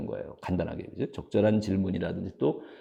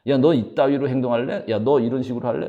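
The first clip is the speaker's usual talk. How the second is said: louder, higher mock scolding; mock angry rebuke; 3 semitones higher, 6 dB louder than usual. Shown as a demonstration. Contrasting the you-message with the I-message, louder mock anger. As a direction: bark the demo at a friend. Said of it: "하는 거하고 다르다는 거예요".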